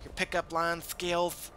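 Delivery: lightly mocking soft monotone narrator; a hint of a sleepy Let's Player; low-key monotone. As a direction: murmur it flat like a calm tutorial. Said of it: "really low-key monotone".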